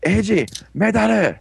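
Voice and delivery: high-pitched mock call-out; acted call. Ankh calling Eiji while throwing medals, imitated high call.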